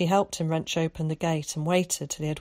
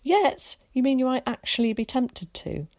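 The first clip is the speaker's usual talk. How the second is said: surprised; 7 semitones higher, 3 dB louder than usual. Acted. Zack startled, teasing.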